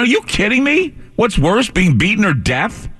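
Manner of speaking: high, slow, disbelieving repeat; incredulous. Retold or imitated. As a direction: throw the question back, aghast.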